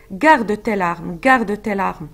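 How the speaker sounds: slow, deliberate garde tes larmes twice; gentle slow insistence on garde; slow repetition. Retold or imitated. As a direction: linger on each garde. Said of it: "regardez cette, euh, répétition".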